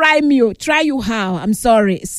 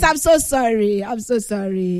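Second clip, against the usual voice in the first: consoling; 4 semitones lower than usual. Real, not acted. Consoling the caller after laughing.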